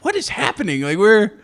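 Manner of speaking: high-pitched, confused outcry; mock bewilderment. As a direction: act out a baffled viewer. Acting out friend's imagined confusion.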